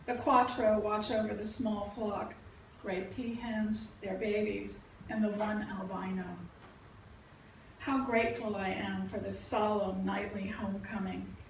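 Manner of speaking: measured verse recital, settling at the close; poetry reading. Acted. Poet reading about a hike among peacocks, measured recital. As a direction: read each image as its own phrase. Reads own poem aloud.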